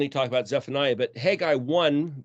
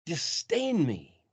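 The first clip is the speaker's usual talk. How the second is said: "Disdain me" repeated slow and softer, weighing each word; slow echo; 4 dB quieter, much slower than usual. Real, not acted. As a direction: let "Disdain" sink, half as fast, quietly. Preacher repeats the accusation to himself.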